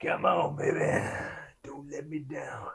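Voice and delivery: slow, pleading whisper; whispered plea. Real, not acted. Player willing a stealth roll to succeed, whispered. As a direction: whisper it to the dice like a prayer.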